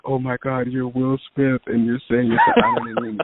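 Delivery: high, choked-up disbelief; mock tearful fan; imitating tearful gush. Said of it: "she's just bawling, crying".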